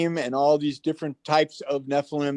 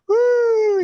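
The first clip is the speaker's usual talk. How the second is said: high squealing woo of delight; a thrilled kid's woo; excited woo; 7 dB louder than usual. Retold or imitated. Boy thrilled by paranormal book, high excited woo.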